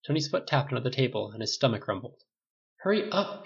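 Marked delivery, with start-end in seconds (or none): 2.8-3.4 high, pleading hurry; impatient. A narrator's reading. Hungry Tony urging everyone at the table, high and impatient. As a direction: whine at them to get moving.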